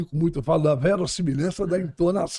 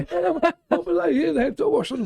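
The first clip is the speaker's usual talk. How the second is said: laughing high; 13 semitones higher, slower than usual. Real, not acted. Host laughs about continuing podcast.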